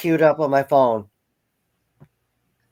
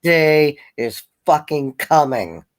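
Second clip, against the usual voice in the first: a lightly voiced menacing cat with a laugh; voicing the cat. Cat whisperer voicing the hissing cat, mock menace. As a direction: play the cat threatening revenge, half laughing. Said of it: "I'm a cat whisperer".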